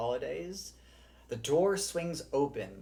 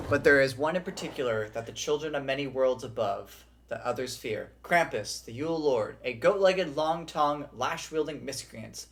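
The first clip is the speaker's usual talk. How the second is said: a touch of storyteller gravity; lore reading. Acted. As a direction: read the legend out like a tale. Reads lore aloud.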